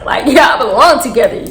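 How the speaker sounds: breaking into a laugh mid-line; laughing tease. Real, not acted. Teller laughing while mocking the pair. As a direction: giggle through the tease.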